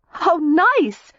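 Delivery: high, forced cheerful exclaim; forced brightness. A narrator's reading. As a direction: cover unease with cheer. Daisy uneasy, forced brightness.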